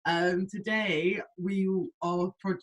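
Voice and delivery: tripping over the words; stuttering. Real, not acted. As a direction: stumble as you start. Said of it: "I don't know why I'm stuttering".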